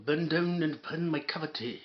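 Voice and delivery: put-on heavy Scottish accent, half-mumbled; mock Scottish accent. Host mimicking the man's speech, mock Scottish accent. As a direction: put on a thick Scottish burr. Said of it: "heavy, Scottish accent".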